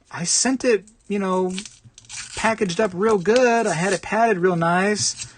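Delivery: a defensive seller playing polite; eBay seller. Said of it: "the guy's like".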